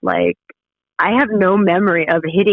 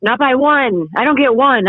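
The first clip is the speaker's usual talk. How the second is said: raised, outraged retelling to the friend who turned the car around; furious outburst; 7 semitones higher than usual. Retold or imitated. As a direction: voice jumps high, yelling at her friend.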